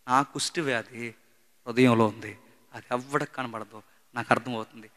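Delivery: hushed, pained words in short phrases, mildly acted; imitated tearful confession. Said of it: "ఏడుస్తూ ఒక మాట అన్నాడు".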